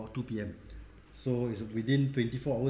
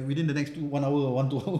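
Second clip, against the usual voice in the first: laughing. Retold or imitated. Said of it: "They're like".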